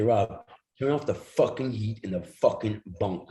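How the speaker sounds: understated irritated order; mild angry demand. Retold or imitated. Ziggy telling driver Rob to turn off the heat, mild anger. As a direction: lay it down to the driver, a touch of menace.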